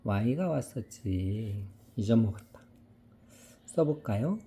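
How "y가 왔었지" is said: slow and soft teacher prompt. Shown as a demonstration. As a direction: spell it out slowly for the child. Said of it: "이야 소리 나는 뭐가 왔었더라".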